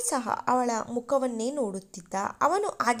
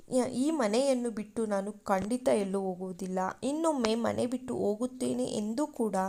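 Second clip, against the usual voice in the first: mild crying plea; 4 dB quieter than usual. Acted. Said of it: "ಅಳುತ್ತಲೇ ಹೇಳುತ್ತಾಳೆ".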